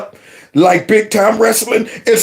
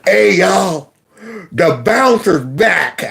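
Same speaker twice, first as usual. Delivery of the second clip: taunting; 2 semitones lower, much slower than usual. Retold or imitated. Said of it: "And Taji said".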